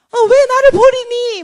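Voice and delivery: slow, high, loud mock wail; Satan screaming. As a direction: wail like a jilted devil, drawn out. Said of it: "사탄이 막 소리를 질러요". (버림받은 사탄처럼 길게 울부짖기)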